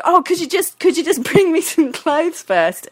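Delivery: high-pitched plea, mild shout; retold calling after. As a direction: re-enact flustered calling after someone. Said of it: "I shouted after her".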